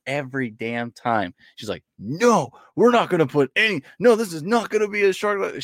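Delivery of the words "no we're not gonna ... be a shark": stern wife. Retold or imitated. Wife refusing shark theme.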